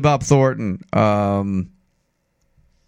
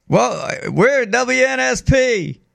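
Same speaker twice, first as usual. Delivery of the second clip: slow, higher, drawn-out drawl; Bill Clinton impression; 5 semitones higher, slower than usual. Host redoes his welcome on request, hammed-up Clinton drawl. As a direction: stretch the welcome like a folksy Southern politician. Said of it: "Do it one more time".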